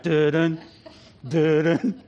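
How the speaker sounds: ominous movie theme done by mouth, with a pause between; Jaws theme imitation. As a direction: voice the two-note shark motif. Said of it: "you always know when the shark's around".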